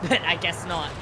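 normal talking voice

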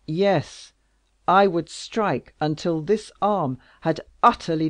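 loud, raging royal oath; exasperated king. Acted. King swearing to strike her enemies, loud rage. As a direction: swear it with fury.

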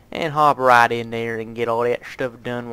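unplanned touch of southern US accent. Real, not acted. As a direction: slip casually into a southern accent. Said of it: "Why am I talking in that southern accent?".

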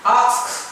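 teacher models the word asks; modelling asks. Shown as a demonstration. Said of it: "thay từ says bằng từ asks".

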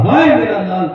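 loud grieving cry of हाय मेरा लाल; mother's wail. A narrator's reading. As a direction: wail for the dead son. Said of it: "माँ ने चीख मार के कहा".

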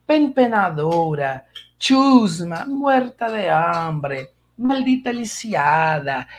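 slow, drawn-out soap-opera insults; telenovela insults. Retold or imitated. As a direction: spit out insults like a telenovela villainess, savoring each word. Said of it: "Com a entonação".

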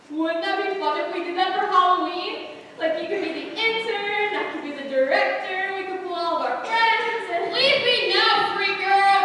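gushing excitement. Real, not acted. Eager intern gushing.

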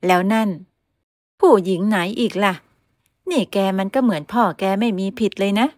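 lightly voiced older lady scolding her son; mother berating her son for skipping work. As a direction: nag him sharply like an exasperated mother.

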